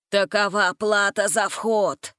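put-on slow, measured old voice; old wizard's verdict. A narrator's reading. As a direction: deliver the price coolly.

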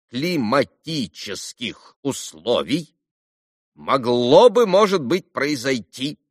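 slow, weighty pronouncement; a hint of a pompous doctor; lightly voiced doctor. A narrator's reading. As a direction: lay out the cure deliberately. Doctor's advice.

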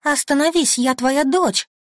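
high, loud desperate begging; frantic high begging; desperate plea. Acted. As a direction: plead to be recognised. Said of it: "рыдаю я".

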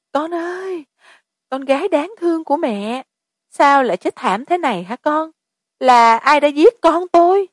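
keen over a dead daughter; wailing mother. A narrator's reading. A mother wailing over her murdered daughter, rising to anguish. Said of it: "gào khóc thảm thiết".

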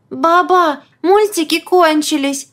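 put-on high little girl voice; childlike voice. A narrator's reading. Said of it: "детским голоском".

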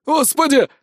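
a high, loud shriek of terror; terrified high scream to God; panicked shriek. A narrator's reading. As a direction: squeal in sheer panic. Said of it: "заверещал не своим голосом".

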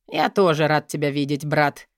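low, sly greeting; smirking. Acted. Dmitry smirking at his twin brother, sly and low. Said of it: "ухмыльнулся Дмитрий".

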